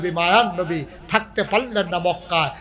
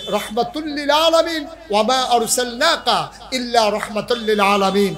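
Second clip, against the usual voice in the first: measured Arabic scripture recitation; quoting scripture from the pulpit; Quranic recitation; 5 semitones higher than usual. Acted. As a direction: recite the verse in a preacher's cadence.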